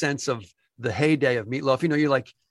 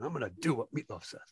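huffing and puffing; 11 dB quieter, faster than usual. Retold or imitated. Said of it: "huffing and puffing".

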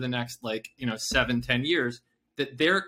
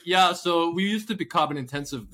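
a mock Dutch accent, pitched higher and louder; hamming up a Dutch executive's accent; bad Dutch accent; 5 semitones higher, 4 dB louder than usual. Mocking a Dutch wind company in a bad Dutch accent. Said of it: "this is the worst Dutch accent ever".

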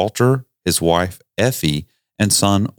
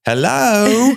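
squeaky hello; 14 semitones higher than usual. Acted. Comic high-pitched exclamation.

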